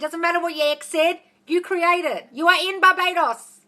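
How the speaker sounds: full-on, emphatic, high-pitched yelling. Getting carried away mid-explanation, then apologizing for it; yelling. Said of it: "sorry, I'm yelling".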